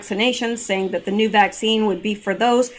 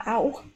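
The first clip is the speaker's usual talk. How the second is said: soft pained ow; 6 dB quieter than usual. Real, not acted. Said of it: "I got a foot cramp".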